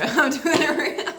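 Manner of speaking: out of breath, laughing, cut off mid-word; catching breath midword. Real, not acted. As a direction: run out of air mid-sentence. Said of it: "I lost my breath there".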